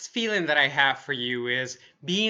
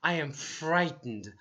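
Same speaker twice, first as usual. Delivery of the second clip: frightened; 5 dB quieter than usual. Shown as a demonstration. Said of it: "you can say".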